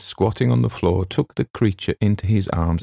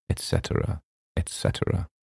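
unvoiced whisper, trailing off; 7 dB quieter than usual. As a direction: whisper it, lost in reading. Reading the manuscript aloud.

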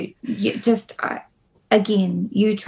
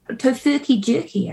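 Tofurky jerky in a Kiwi accent, Tofurky with a Kiwi vowel; New Zealand accent; 4 semitones higher than usual. Shown as a demonstration. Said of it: "I was doing a New Zealand accent".

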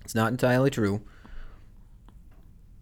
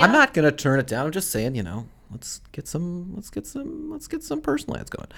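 getting more and more worked up; rising excitement; 9 semitones higher than usual. Real, not acted. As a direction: pitch climbs higher and higher.

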